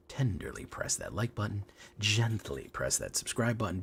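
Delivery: soft, coaxing plea; softly delicate, playful request; mock tender. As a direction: say it gently, with hammed-up tenderness.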